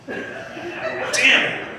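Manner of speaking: high startled outburst; mock fright at the drive-through box; startled cursing. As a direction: jump and curse in shock.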